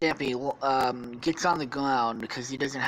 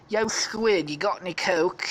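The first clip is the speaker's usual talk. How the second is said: Alpha Lee; 5 semitones higher than usual. Acted. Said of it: "thinking he's British".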